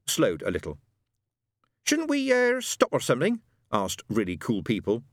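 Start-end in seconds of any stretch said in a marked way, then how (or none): 1.8-3.4 put-on much higher, hesitant young biker; a timid question to the leader; nervous high biker. A narrator's reading. Biker to the others, nervous high voice.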